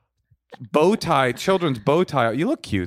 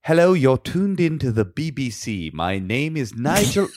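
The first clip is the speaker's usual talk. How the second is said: put-on posh British received pronunciation accent; BBC English accent. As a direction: announce it like a BBC presenter, RP accent. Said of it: "I'm gonna try to do B B C, B B C English".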